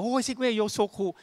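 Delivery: high, drawn-out imitation of a fan; gushing admiration. Employees meeting the CEO in the lift, mock gushing.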